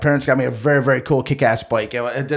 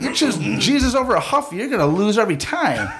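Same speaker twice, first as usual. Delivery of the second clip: mock sermon; 10 semitones higher than usual. Mock preaching moral of story.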